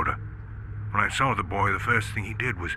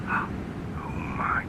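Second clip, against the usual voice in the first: breathless hushed whisper; 5 dB quieter than usual. Acted. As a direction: whisper it in quiet awe. Hushed lookout, still whispering.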